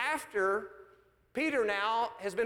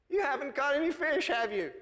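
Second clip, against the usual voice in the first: conversational voice; 4 semitones higher than usual. Acted. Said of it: "probably in a very conversational voice".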